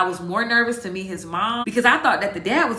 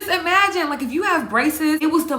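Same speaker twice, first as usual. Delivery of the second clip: higher and louder, flustered; embarrassed exclaim; 8 semitones higher, 4 dB louder than usual. Real, not acted. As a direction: blurt it out mortified. Recalling embarrassment.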